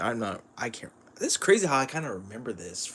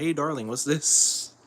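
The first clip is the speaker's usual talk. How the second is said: slow, drawn-out "darling"; coy slow tease; 4 semitones higher, 5 dB louder than usual. Retold or imitated. Wife teasing her husband about a find, slow and coy. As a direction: lure him in, slow and sweet. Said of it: "she's like".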